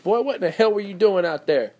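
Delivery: high-pitched mother's scolding; imitating his mom. Host showing how his mom talks, mock scolding. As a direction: tell off a son in mom's voice. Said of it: "'cause my mom talks like that".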